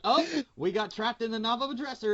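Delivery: mock excited announcement. Imagined writers' dart throw.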